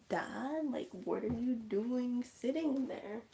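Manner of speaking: put-on puzzled kid calling.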